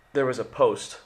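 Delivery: talking through hiccups; a hiccup catching the words. Real, not acted. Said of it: "I have the hiccups".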